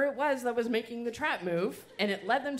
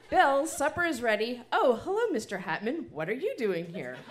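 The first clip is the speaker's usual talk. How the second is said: a lightly voiced mother calling upstairs, higher and louder; mom calling; 4 semitones higher, 5 dB louder than usual. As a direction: call the boy to supper like a cheery mom. Mom calls up, greets Hatman.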